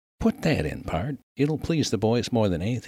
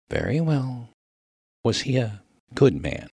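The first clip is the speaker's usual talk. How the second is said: higher, careful minister's voice; patient minister; 5 semitones higher than usual. Acted. Minister trying simpler words on the miner, higher and careful. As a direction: start over patiently, pitched high.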